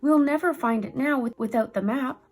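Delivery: loud high despairing wail; sobbing. A narrator's reading. Cousin despairing over the lost map, mock sobbing. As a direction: keep crying through the words. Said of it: "he sobbed".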